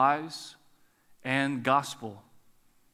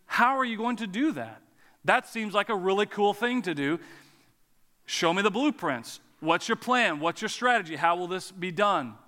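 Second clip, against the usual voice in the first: interested, trusting question; believing curiosity; 3 semitones higher than usual. Shown as a demonstration. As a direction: ask like someone eager to hear the plan. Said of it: "and you believe me".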